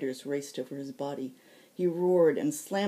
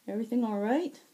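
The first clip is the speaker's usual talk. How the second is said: called out across the hall, higher and louder; calling out; 7 semitones higher, 4 dB louder, faster than usual. Acted. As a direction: call through the door to a friend. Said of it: "Zack called out".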